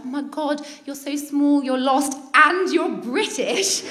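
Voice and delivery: lightly acted pity, drawing out the end; pitying gush. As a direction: imitate someone fussing over a lost child. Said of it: "really taking pity on me".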